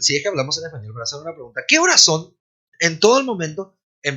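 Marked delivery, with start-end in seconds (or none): 1.7-2.4 ¿Qué horas son? said high and loud from the start, falling after horas; Spanish question tune. Shown as a demonstration. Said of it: "está siempre la tonalidad de pregunta".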